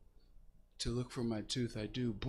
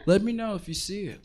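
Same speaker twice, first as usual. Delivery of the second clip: loud; 9 semitones higher, 7 dB louder, faster than usual. Acted. Comic repeat, loud.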